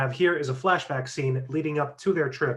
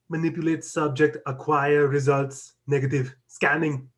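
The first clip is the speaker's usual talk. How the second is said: computer voice. Acted. Voiceover for Brother Eye computer.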